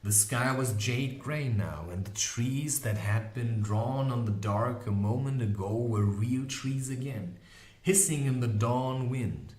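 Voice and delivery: ordinary delivery, nothing marked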